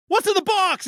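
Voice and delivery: high squeaky what's in the box; hammed-up high panic; mock distress. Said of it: "Mills is just like".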